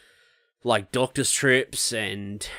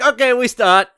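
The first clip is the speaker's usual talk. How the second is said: imitating the dentist; 11 semitones higher, 8 dB louder than usual. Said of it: "he's like".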